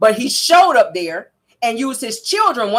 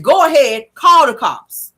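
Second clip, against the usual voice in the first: defiant taunt; 4 semitones higher, 5 dB louder, slower than usual. Retold or imitated.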